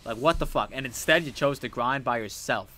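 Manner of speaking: loud, heated rant at a friend; angry rant at the friend who lost the Pokemon; retold chewing out. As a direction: tear into him again, half-mock. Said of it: "I fucking chewed into this man".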